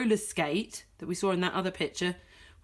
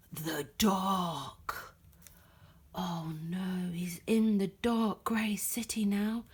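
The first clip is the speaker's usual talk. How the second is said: whisper; 3 dB quieter, slower than usual. Acted. Scary dark city.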